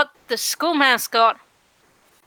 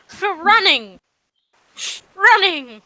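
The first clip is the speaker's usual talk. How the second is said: indignant, voice jumping up and louder on the repeat; indignant disbelief; 6 semitones higher, 3 dB louder, slower than usual. Acted. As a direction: exclaim it in outraged disbelief. Acted student indignant about detention.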